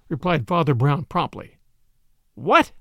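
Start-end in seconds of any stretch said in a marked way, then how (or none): 2.3-2.7 high, rising one-word question; startled cry. A narrator's reading. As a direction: cry out in disbelief. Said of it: "cried Doctor Hood".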